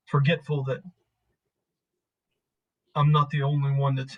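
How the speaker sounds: lightly voiced man opening up, haltingly; reflective, halting man. Man admitting others have had loss too, halting and subdued.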